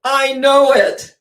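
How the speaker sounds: high, slow whimpering admission; lion admitting it to Dorothy, hammed-up sob; crying lion. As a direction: wail it pitifully. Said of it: "The Cowardly Lion begins crying".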